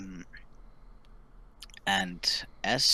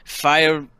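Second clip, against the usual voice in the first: louder, dramatic storytelling; game master's scene setting; 2 semitones higher, 7 dB louder than usual. Acted. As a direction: announce the sudden danger with force.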